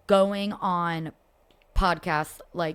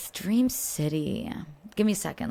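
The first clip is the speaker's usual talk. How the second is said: ordinary talk, nothing marked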